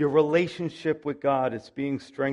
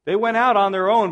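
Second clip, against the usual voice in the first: emphatic preaching; 5 semitones higher, 7 dB louder than usual. Real, not acted. Preacher stresses contrast.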